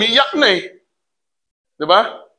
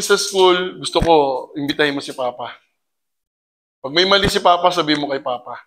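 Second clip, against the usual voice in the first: tender apology; 4 semitones lower than usual. Acted. Father apologising to his child.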